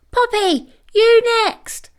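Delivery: high squeaky puppy order; a pup's high little command; tiny puppy voice. A narrator's reading. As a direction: point her up the tower, squeakily. Peanuts giving orders.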